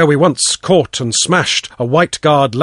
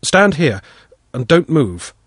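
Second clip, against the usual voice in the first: order. Acted. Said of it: "I ordered".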